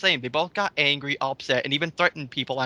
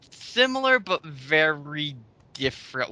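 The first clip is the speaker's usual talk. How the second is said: slow, scornful echo of the comment; mocking slow repeat; 2 semitones lower than usual. Host mocking a commenter's phrase, slow and sneering. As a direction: drag it out slowly, sneering at the phrase. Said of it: "Wow, what an oxymoron".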